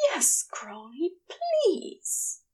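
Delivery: whining plea, pitch climbing high; eager whine. Acted. Aziraphale begging Crowley, eager whine. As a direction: beg with impatient eagerness. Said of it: "There's a whine that feels somewhere between impatience and eagerness".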